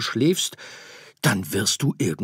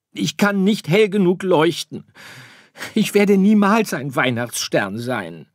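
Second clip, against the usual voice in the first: hoch und laut, bockig abwehrend; trotziges Sternkind; 13 semitones higher, 13 dB louder than usual. Acted. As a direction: Sirius erklärt Weihnachten für doof. Sirius verzweifelt. (trotzig und bockig, höher und lauter)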